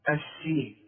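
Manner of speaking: السين with a thin, light s; wrong light letter. Shown as a demonstration. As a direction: say السين with a plain sin, not sad. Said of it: "في ناس تيجي تقول لك". (السين بسين مرققة)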